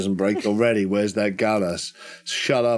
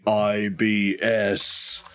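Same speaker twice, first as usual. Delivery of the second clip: slow, drawn-out booming boom; much slower than usual. Acted. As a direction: boom each letter like a distant giant. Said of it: "You hear a booming voice saying".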